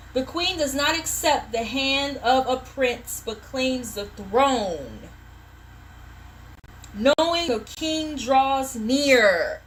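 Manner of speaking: drawn-out oracle reading; slow ceremonial tarot reading; solemn slow reading. Acted. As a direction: intone the card slowly like a proclamation. Reading card text slowly.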